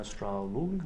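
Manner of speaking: slow, soft German accent. Shown as a demonstration. Lecturer trying out Strahlung, slow German accent. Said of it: "put on my best German accent".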